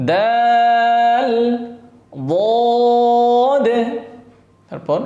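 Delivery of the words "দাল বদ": দাল then বদ, each held and set against the other; paired letter drill; contrast dal dhal. Shown as a demonstration. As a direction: model the pair দাল বদ clearly. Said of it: "দাল আর এটা হচ্ছে দদ".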